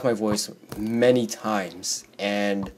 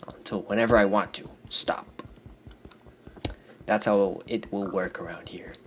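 whispering; 2 semitones lower, 5 dB quieter than usual. Real, not acted. Whispered aside to viewers.

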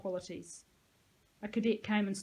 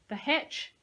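raised voice, pitched higher; talking loudly; 6 semitones higher, 3 dB louder than usual. A narrator's reading. Dean making himself heard through his mask, talking loudly. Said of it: "talking loudly so that I could be heard".

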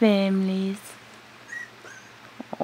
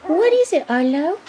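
much higher and louder, excited; 7 semitones higher, 4 dB louder than usual. Real, not acted. Excited baby talk to animal.

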